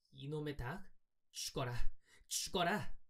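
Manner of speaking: lightly voiced girl cursing under her breath; soft, spiteful curse rising at the end. A narrator's reading. Girl cursing the hen she is beating, spiteful.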